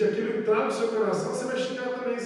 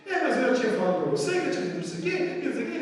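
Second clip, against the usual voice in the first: mock retort; 3 semitones higher, much faster than usual. Acting retort in argument.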